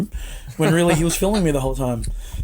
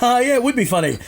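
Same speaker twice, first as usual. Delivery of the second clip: sarcastic; 7 semitones higher than usual. Retold or imitated. Sarcastic reply to Lance.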